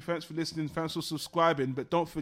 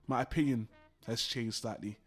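dramatic drop in pitch and volume; dramatic showman; 6 semitones lower, 5 dB quieter than usual. Real, not acted. Co-host teasing his partner with a verdict, dramatic. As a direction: let the verdict sink low for effect. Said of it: "So freaking dramatic all the damn time".

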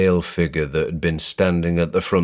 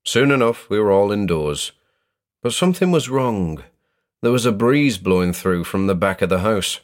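plain reading voice

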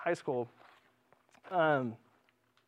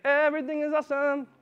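high, mock-chirpy cheer; hammed-up fake happiness; 8 semitones higher, 3 dB louder than usual. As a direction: sing it out fake-happy. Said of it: "you sound so happy".

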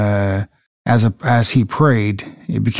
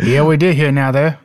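put-on Southern accent. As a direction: jokingly show off a Southern accent. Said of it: "practice with our Southern accents".

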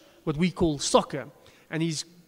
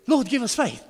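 higher, louder mock cry; hammed-up plea, pitched up and loud; exasperated plea; 6 semitones higher, 6 dB louder than usual. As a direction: beg like a panicked disciple. Disciples' exclamation repeated.

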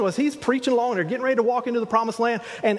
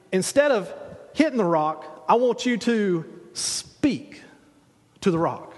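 God's whispered instruction. Retold or imitated. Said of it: "God told him, "Okay, here's what you do".

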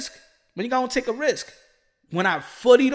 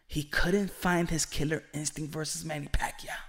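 whisper; 4 semitones lower, 7 dB quieter than usual. Real, not acted. Dramatic point about Thurman.

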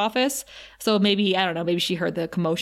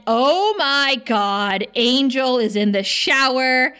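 slow, louder-than-usual thrilled gush; fangirl swooning; 4 semitones higher, 4 dB louder, much slower than usual. Real, not acted. Podcast host reaching the shower scene, swooning gush. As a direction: savor every word, swooning with delight. Fangirl gushing over shirtless Angel.

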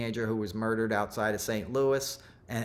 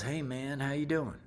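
lightly imitated laid-back greeting, higher voice; cool President Carter; 4 semitones higher, 4 dB quieter than usual. President Carter turns to the storyteller, cool and casual. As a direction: toss off a casual, cool-guy hello. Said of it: "he was the coolest guy".

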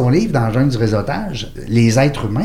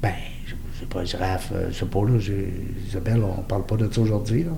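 mock-embarrassed whisper, much softer; whispered fluster; 5 semitones lower, 11 dB quieter than usual. Host retells his flustered answer to Isabelle, whispered. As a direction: whisper it like you've been caught out on air.

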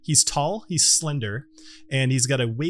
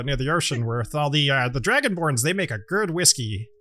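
gnome host; 3 semitones higher than usual. Acted. Gnome host describes the whiskey.

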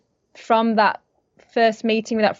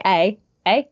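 Canadian eh. Retold or imitated. Actress imitating Canadians she has heard, lilting eh. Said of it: "some might go, some I've heard".

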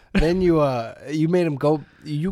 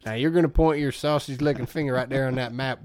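mock Southern accent. Mocking the actor's film role, Southern accent. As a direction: parody of a bad Southern accent. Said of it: "When he does a Southern accent".

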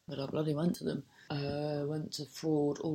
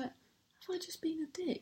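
whispered, higher private doubt; self-doubting whisper; 11 semitones higher, 5 dB quieter than usual. Retold or imitated. Whispering her doubts about the apologetic seller. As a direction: whisper it to yourself, unsure. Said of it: "So I was like".

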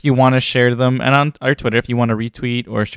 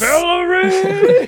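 long, high cartoon yell of a name; villain yell; 4 dB louder, much slower than usual.

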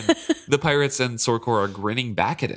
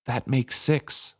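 awed; 3 semitones higher, much slower than usual. Acted. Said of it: "observed in awe".

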